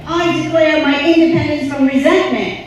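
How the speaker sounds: loud, high declaration for the crowd to echo; call for response. Shown as a demonstration. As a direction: proclaim it loud so everyone repeats. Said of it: "Repeat after me".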